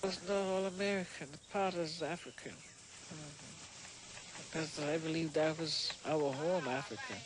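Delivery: Sea Island Gullah speech; Gullah accent. Real, not acted. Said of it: "Benjamin and Janie's gullah".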